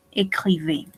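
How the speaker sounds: Écrivez with a clear closed é at the start; accent on é. Shown as a demonstration. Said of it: "el acento se conserva".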